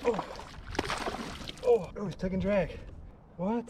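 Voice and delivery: high, urgent pleading; tense and worked up while reeling; fighting a fish. Real, not acted. Fish taking drag, reeling in.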